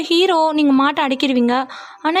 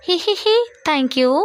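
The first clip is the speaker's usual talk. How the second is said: mock giggly thanks; 2 semitones higher than usual. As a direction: put on an exaggerated smile to say thanks. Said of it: "அது கொஞ்சம் சிரிச்சிட்டு சொன்னா என்ன".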